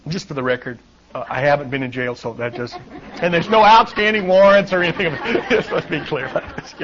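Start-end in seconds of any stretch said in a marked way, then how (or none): 3.2-6.7 chuckling through the words, a bit louder; real amused laugh. Real, not acted. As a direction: laugh it off as a joke. Joking he's no criminal.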